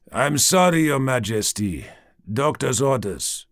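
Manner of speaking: put-on light Jamaican accent, apologetic servant; young servant turning the queen away, Jamaican accent. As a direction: politely refuse in a Jamaican accent. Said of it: "A Jamaican accent".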